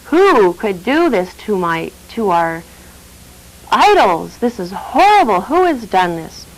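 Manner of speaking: slow, mildly outraged priest; a hint of shocked fury. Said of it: "he was outraged".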